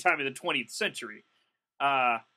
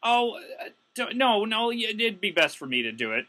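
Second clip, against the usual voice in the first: pleading clerk; 9 semitones higher than usual. Retold or imitated. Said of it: "I'm like".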